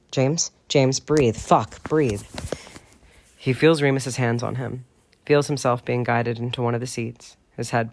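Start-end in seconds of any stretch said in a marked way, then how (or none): 0.1-2.2 louder, urgent pleading to breathe; urgent plea. Acted. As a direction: push him to breathe, alarmed. Remus urging James to breathe.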